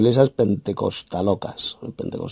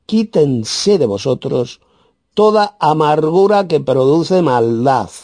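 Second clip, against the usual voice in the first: slow, raised verse reading; emphatic scripture reading; 4 semitones higher, slower than usual. Real, not acted. Preacher reads verse thirty-one to listeners, emphatic and slow. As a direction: read the verse out deliberately.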